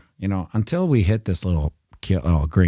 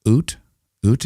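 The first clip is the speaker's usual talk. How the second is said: put-on Canadian accent; 3 semitones higher than usual. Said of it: "they say that Canadians say".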